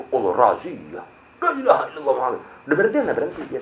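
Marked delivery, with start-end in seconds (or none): 0.1-2.4 hushed panicked prayer. Retold or imitated. Rider spotting a police raid, hushed mock panic. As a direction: mutter the shahada under your breath in mock fright.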